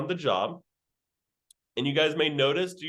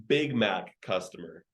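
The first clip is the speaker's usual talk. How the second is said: slow, lower, dramatic reveal of the punchline; punchline delivery; 7 semitones lower than usual. Shown as a demonstration. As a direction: drop the line slowly for the laugh. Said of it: "I was waiting all day to say that line".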